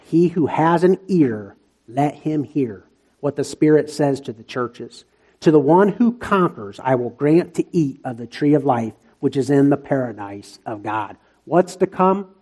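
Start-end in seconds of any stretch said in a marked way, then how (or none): 0.0-11.2 measured scripture reading; slow reading. Real, not acted. Preacher reading verse seven to the church, slow reading. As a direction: read the verse out deliberately. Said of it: "here's where I'll read it slow".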